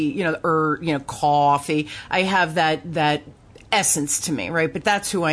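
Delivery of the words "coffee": New Jersey "coffee"; Jersey accent. Shown as a demonstration. Podcaster owning up to a lifelong accent, Jersey accent. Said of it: "that Jersey".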